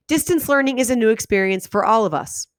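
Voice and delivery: sentence ended with a clear pause; read with pauses. Shown as a demonstration. Teacher reading aloud so the class hears each pause. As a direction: stop cleanly at the end of the sentence. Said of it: "listen for the pauses".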